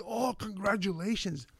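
high, put-on congratulations; mock congratulations. Former teacher congratulating the student he once doubted, falsely pleased and high. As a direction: sound falsely pleased for him.

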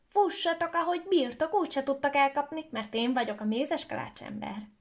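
high, loud cheeky taunt, settling at the end; taunting shout. Acted. Gingerbread boy taunting the cat, loud cheeky shout. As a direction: call out the boast to the cat. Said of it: "aki azt kiabálta".

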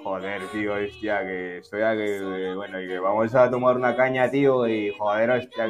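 imitating a Castilian Spaniard, lightly done; Spanish accent. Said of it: "y hablaban todos". (acento español imitado, suave)

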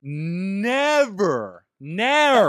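loud, high, drawn-out theatrical cry; Shakespearean actor. Acted. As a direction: declaim it like old Shakespearean drama. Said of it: "As they would say in old Shakespearean time".

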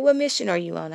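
a hint of a curious child; lightly voiced child asking; kids' voice. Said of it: "They said".

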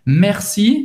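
"Merci" with a throaty R in the middle; guttural French R. Shown as a demonstration. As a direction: roll the R of "Merci" at the back of the throat. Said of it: "de novo esse R no meio, bem gutural". (R gutural no "Merci")

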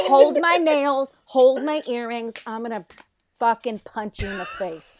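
half-joking fight threat; ready to fight. Retold or imitated. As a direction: mom hyping herself up for a fight. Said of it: "I was like".

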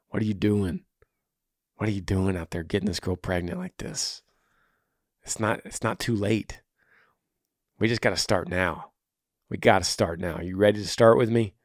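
low, soft, earnest plea; gentle earnest appeal. Real, not acted. Host counseling a listener who got a girl pregnant, gently earnest. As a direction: drop low and quiet, urging him kindly.

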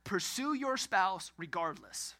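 slow, with regardless leaned on hard at the end; stress on regardless. Shown as a demonstration. Pastor urging married couples to keep pursuing, weight on "regardless". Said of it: "I wanna make a strong emphasis on the last word".

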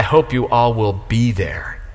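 slow whisper to the whole room; soft whisper. Real, not acted. Pastor invites the church to the groundbreaking, whispering. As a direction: breathe it as a hushed invitation.

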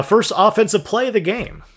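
announcer voice. Acted. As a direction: read it like a game show host. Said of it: "in my best announcer voice possible".

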